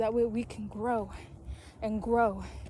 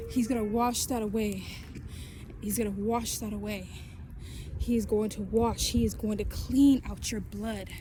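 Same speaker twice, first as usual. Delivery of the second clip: fiery preaching. Real, not acted. Preaching at full force to viewers.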